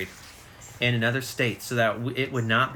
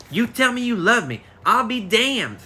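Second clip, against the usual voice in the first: high, insistent demand, louder and pushy; 8 semitones higher, 3 dB louder than usual. Acted. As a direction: insist he say it, half-joking curse. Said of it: "I demanded".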